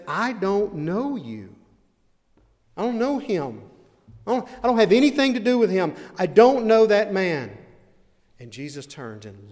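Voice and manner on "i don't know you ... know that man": much higher and louder, climbing to a shout; desperate shouted denial. Acted. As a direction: deny him in a rising panic, yelling. Peter's frantic final denial.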